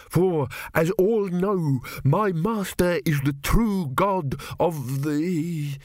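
high, slow haughty priest; pompous priest. A narrator's reading. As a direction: proclaim with smug certainty. Priest of Thrp voiced.

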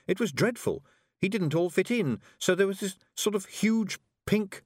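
put-on a girl blurting out her worry; young girl Tiffany. Tiffany voiced.

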